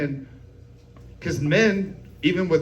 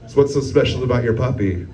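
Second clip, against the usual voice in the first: catty; 7 semitones lower than usual. Retold or imitated. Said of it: "I was all catty about it".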